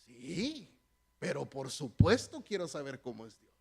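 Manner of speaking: put-on slipping into a slight Spanish accent; a hint of a Spain Spanish accent, unplanned; half Spanish accent. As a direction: acento medio español, sin querer. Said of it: "Se me salió el acento así medio español".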